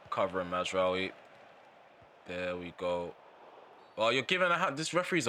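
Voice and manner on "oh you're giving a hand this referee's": indignant outburst. Real, not acted. Gamer reacts to referee decision.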